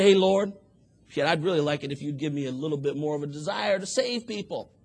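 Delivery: casual lazy prayer. Retold or imitated. Man praying half-heartedly to the Lord, careless and offhand. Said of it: "It's not enough to just get down".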